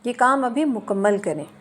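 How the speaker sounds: "ये काम अभी मुकम्मल करें" as an order, pitch dropping at the end; falling command intonation. Shown as a demonstration. Teacher demonstrating an order to finish work, falling command. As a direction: give the order, let "करें" fall. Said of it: "हुक्म देते वक्त अक्सर आवाज़ आखिर में नीचे जाती है".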